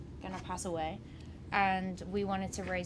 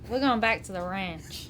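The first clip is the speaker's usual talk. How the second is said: put-on Southern US country accent, louder; 5 dB louder than usual. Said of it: "do you have a country accent that you can give us?".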